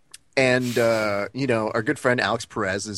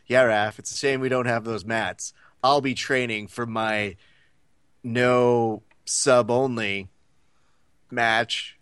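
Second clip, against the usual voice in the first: Austin Powers way; slower than usual. Retold or imitated. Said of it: "he says it in that Austin Powers way".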